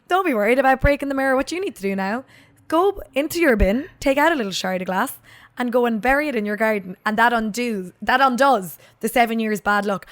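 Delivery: amateurish, lilting County Down impersonation; County Down accent. Retold or imitated. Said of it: "This is my County Down accent".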